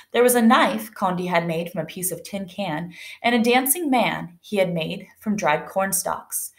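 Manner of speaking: measured, expressive storybook reading; story narration. A narrator's reading. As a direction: clear read-aloud storytelling. Reads story aloud to class.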